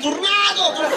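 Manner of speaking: high, hammed-up Russian accent; high-pitched cartoon Russian cry; mock Russian. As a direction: imitate an appliance suddenly speaking Russian. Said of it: "התחיל לדבר רוסית".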